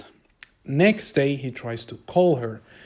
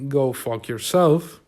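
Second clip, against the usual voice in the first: mild, drawn-out friendly dismissal; nice-guy brush-off. Retold or imitated. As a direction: say it slowly, without malice, as a nice guy would. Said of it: "In a nice way".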